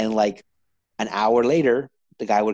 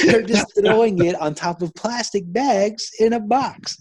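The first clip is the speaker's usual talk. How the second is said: higher, louder, slow words broken by laughter; laughing through it; 10 semitones higher, 6 dB louder, slower than usual. Real, not acted. Retelling his brother's dumpster pizza logic, laughing. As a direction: laugh while you explain it.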